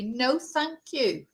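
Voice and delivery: slow, pointedly polite no thank you; polite refusal. Retold or imitated. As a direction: stress the politeness, slowly. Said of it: "I said to you politely".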